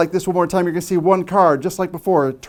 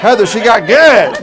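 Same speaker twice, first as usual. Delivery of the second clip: laughing; 5 semitones higher, 12 dB louder, slower than usual. Real, not acted. Laughing after the trick.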